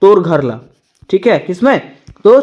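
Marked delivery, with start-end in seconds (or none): 0.0-0.6 Chhattisgarhi phrasing. Shown as a demonstration. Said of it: "क्या कहा जाता है?".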